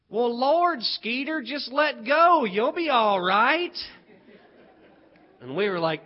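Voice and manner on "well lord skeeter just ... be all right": lightly acted teacher, slowing down; voiced teacher. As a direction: drag out the words as an unruffled teacher. Teacher voiced, answering the children.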